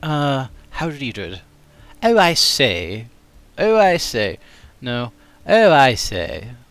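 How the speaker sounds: slow, drawn Oh I say in Transatlantic; old-film upper class; Transatlantic accent. Shown as a demonstration. Chat asks for a Transatlantic accent.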